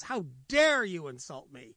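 offended lion. Acted. Lion angered by insult.

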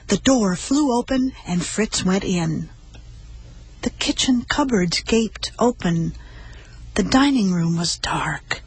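gentle storybook reading voice; story narration. A narrator's reading. Host listening as she reads the dog story, gently. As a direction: read a children's story aloud on the radio.

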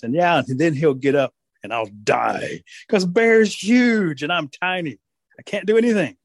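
slow, stretched mock despair; deflated rabbit. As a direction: realize it slowly, rising to a helpless whine. Rabbit realizes Bear is huge.

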